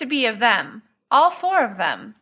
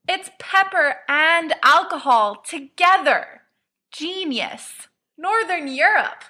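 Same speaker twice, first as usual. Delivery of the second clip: put-on drunken rave; 5 semitones higher, slower than usual. Drunk Sirius raving about drink.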